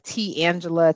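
"T Angela" split into T, then Angela; mispronounced name. Shown as a demonstration. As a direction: say "T Angela" slowly, as two separate names. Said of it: "they jack it up".

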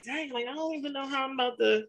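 rising to a loud, high we gonna do it; hyped-up disbelief that builds to a loud burst; excited self-quote. Retold or imitated. Podcaster recalls planning her shoot, building to excited loud finish. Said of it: "and I'm like".

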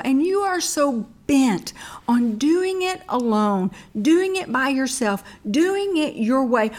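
voice of God. Acted. God speaking to her.

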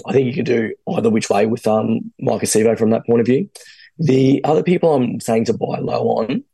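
hoarse, croaky throat. Real, not acted. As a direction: talk through a croaky voice. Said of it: "I've got a massively croaky voice".

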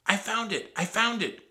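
put-on high, loud boy's exclamation; high-pitched jubilant yell; excited cry. A narrator's reading. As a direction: shout out a thrilling find. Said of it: "cried Jack".

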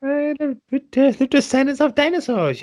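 Jeff Goldblum impression. Host riffs on the Goldblum bit, high halting impression. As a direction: stammer it out like Goldblum. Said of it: "Jeff Goldblum".

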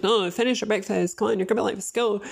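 rushed retold parent telling kids off; brushing off kids. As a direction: hurry the kids along. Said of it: "But it's like".

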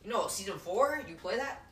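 chummy sales patter, imitating a hustler; a hint of a hustler courting kids; street hawker. Same street seller voiced.

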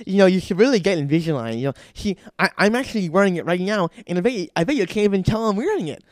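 lightly voiced chatty sales pitch; front desk saleswoman. Chick at front desk pitching Invisalign, lightly mimicked. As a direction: lightly mimic an eager receptionist, pitch rising.

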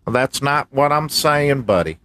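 a hint of the MAGA voice; mildly defensive, calling him buddy; lightly voiced MAGA guy; MAGA man character. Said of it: "Listen, MAGA man".

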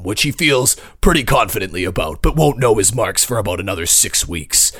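in a world narrator, booming; movie trailer voice. Pretend. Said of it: "Let me hear your in a world voice".

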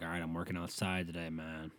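low, quiet pep talk to self. Retold or imitated. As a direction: murmur it to yourself. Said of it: "mindset where you're just like".

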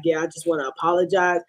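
imitating an offhand, low-key apology; mock nonchalant. Retelling the dad's apology on air, mock nonchalant. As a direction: toss off the apology casually, mimicking him. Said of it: "so nonchalantly".

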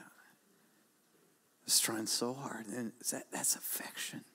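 slow, soft hushed words; a slow, hushed aside. Real, not acted. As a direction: draw it out softly.

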